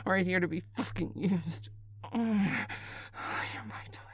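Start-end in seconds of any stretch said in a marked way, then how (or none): 2.1-4.0 slow whisper. Acted. Caller claiming the partner, slow whisper. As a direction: whisper it, drawn out.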